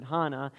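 "Hannah" with an open ah, HAH-nah; broad ah in the first syllable of "Hannah"; German pronunciation. Retold or imitated. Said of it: "so she pronounces it Hannah".

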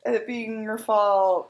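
high, hammed-up pleading with a fake whimper; mock pleading Toby. Toby insisting to Hanna it isn't her fault, mock pleading. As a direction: overdo the sorry-not-sorry reassurance.

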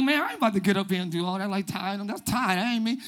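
mock reluctant worshipper, low and dismissive; reluctant grumbling. Churchgoer refusing to get up and worship, grumbling low.

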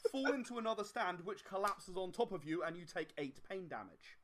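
normal talking voice

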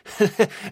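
brief chuckle in character; short laugh. A narrator's reading. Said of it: "Bront laughed".

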